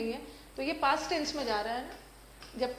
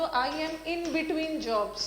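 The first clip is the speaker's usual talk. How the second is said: slow, careful demo of the phrase; said slowly for students to copy; slow model phrase; much slower than usual. Shown as a demonstration. Teacher models the polite phrase slowly for the class. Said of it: "आप बोल दो".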